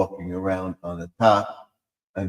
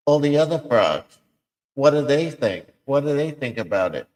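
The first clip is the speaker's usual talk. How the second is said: frog voices; 6 semitones higher than usual. Acted. Voicing frogs in pond skit.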